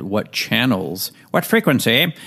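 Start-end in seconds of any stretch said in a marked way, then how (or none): 1.3-2.1 playful high pop. Pretend. Jokey word swap mid-sentence.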